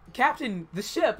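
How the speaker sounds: a crewman calling out in panic; playful imitated alarm; background crew shout. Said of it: "some guy in the background was like".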